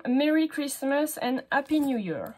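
slow, careful American English accent. Shown as a demonstration. Showing a craft stamp to viewers, in an American accent. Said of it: "j'ai un très bel accent américain".

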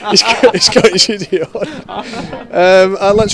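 laughing through the words; chuckling as he speaks. Real, not acted. Host laughs mid sentence.

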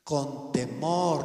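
TEMOR drawn out slowly; stress on TEMOR. Shown as a demonstration. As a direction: say "Con temor" slowly, stretching TEMOR. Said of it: "no se puso de alevoso".

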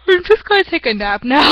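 talking through a yawn; stretched yawny words. Real, not acted. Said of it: "Just keep on yawning".

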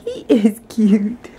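slow whispered agreement. Real, not acted. Mom whispering agreement to her daughter beside the baby.

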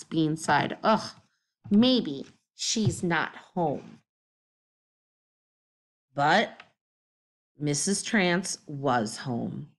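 lively read-aloud voicing each character; story narration. A narrator's reading. Teacher reading a chapter book to the class, animated storytelling.

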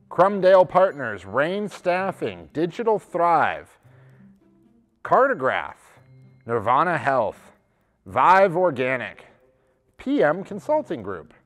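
measured reading of names; list announcer. Real, not acted. Host reading out a list of companies, announcing. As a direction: announce each company name evenly.

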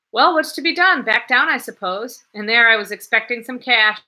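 loud, high exasperated cry; young man crying out in frustration. A narrator's reading. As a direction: throw up his hands and cry it out. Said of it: "cried the young man".

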